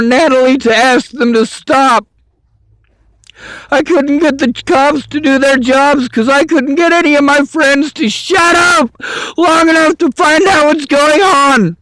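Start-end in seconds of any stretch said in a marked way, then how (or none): 3.7-11.8 frustrated raised voice. Real, not acted. Angry rant about friends.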